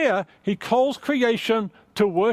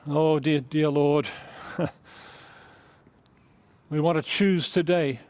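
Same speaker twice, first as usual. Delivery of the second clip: prayer. Acted. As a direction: pray gently, drawing the room in. Pastor leads closing prayer.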